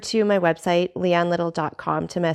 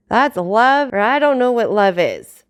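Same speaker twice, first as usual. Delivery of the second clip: put-on drunk exclamation; 2 semitones higher, 5 dB louder than usual.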